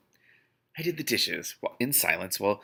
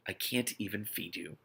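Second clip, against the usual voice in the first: miserable; 2 semitones lower, 8 dB quieter than usual. A narrator's reading. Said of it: "said miserably".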